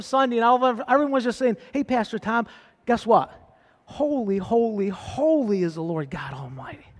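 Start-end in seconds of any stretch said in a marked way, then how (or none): 1.7-6.9 softer, ending in a whisper; hushed secret. Pretend. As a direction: share it like a quiet secret. Hushed greeting to the pastor.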